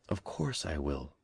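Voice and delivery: slow, soft, glad promise. A narrator's reading. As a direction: agree with quiet gladness. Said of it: "said Mamie gladly".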